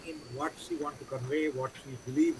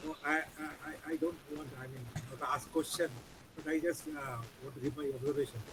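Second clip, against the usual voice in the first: barely audible; 6 dB quieter than usual. Real, not acted. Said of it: "Your voice is very low".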